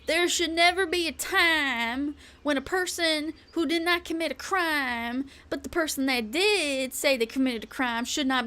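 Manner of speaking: lightly mock a rally speech; Trump-person voice. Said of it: "I'm gonna sound like a Trump person".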